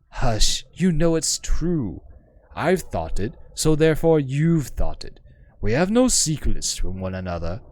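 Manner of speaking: lightly voiced learned woman, wistful; poised scholar woman. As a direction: speak as a refined, self-assured scholar. GM voices the hive-mind woman.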